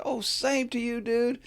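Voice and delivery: high, cheery put-on voice; jovial coworker. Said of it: "here comes Mister Jovial".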